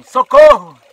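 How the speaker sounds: high, loud, slow laughing shout; retold shouting. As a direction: yell for a paddle while cracking up. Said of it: "o Otto gritava".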